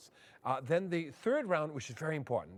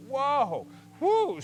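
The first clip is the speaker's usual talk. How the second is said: hot steam gasp; 7 semitones higher, 7 dB louder than usual. Retold or imitated. Hot steam hits the tent.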